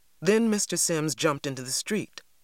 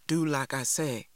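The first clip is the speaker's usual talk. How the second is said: hardened voice. Acted. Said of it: "her voice hardened".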